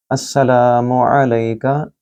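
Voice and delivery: अस्सलामु with a long ला, slowly; slow recitation, long vowels; tajweed recitation. Shown as a demonstration. Teacher demonstrating the greeting, slow recitation. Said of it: "लाम को लंबा करें".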